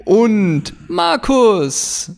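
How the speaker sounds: drawn-out stadium announcer call. Pretend. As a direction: call the player's first name like a stadium announcer. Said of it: "im Stadionsprechermanier".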